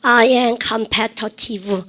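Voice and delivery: very slow, every word stretched; slow sentence for students to echo; slow drill. Shown as a demonstration. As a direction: model it slowly for repetition. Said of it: "그럼 보십시오".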